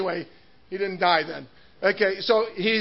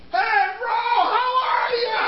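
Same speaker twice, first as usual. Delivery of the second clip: friendly greeting; 13 semitones higher than usual. Retold or imitated. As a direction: call out like a glad old friend. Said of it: "He goes".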